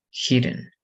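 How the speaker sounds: put-on "hidden" with a short I, as in "kid"; short vowel. Shown as a demonstration. Teacher contrasting it with hide, short I in "hidden".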